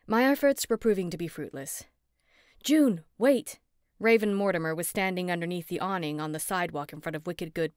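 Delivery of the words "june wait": loud high call across the street. A narrator's reading. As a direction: call after her to stop.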